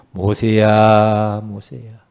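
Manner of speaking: long-drawn, level, resonant summons; God calling. Acted. God calls to old Moses at Horeb, solemn summons. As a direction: stretch the name slowly, then let it drop. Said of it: "하나님의 음성을 들어요".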